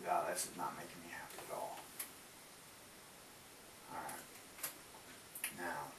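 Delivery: talking while chewing gum; words round a wad of gum. Real, not acted. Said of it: "Sorry for my gum chewing".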